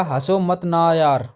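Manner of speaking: slow drawn-out plea, please don't laugh; begging not to laugh. Retold or imitated. Friend pleading slowly with someone to stop laughing. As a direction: stretch each word out. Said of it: "उसने कहा".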